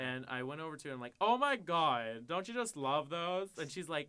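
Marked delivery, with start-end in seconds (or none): 1.2-3.5 put-on high, drawn-out gay Valley Girl gush. Convincing an old lady in a shop, gushing gay Valley Girl. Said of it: "just went for the gay Valley Girl style".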